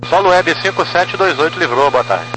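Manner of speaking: crackly radio pilot call; pilot over the radio. Real, not acted. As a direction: voice through a cockpit radio. Pilot reports runway vacated by radio. (piloto no rádio)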